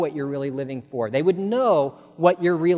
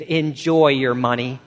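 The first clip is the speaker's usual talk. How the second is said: impassioned pleading; 3 semitones higher, 12 dB louder than usual. Retold or imitated. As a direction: preach it bitterly, building to a cry, then drop. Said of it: "he pleaded".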